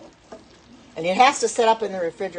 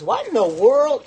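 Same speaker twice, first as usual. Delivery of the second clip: higher, louder, slow astonished question; daughter's surprise; 6 semitones higher, 6 dB louder, slower than usual. Retold or imitated. Daughter on phone hears dog howl, astonished slow question. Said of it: "and she says".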